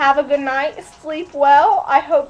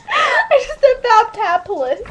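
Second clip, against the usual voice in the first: laughing; 6 semitones higher than usual. Real, not acted. Laughing at own made-up word.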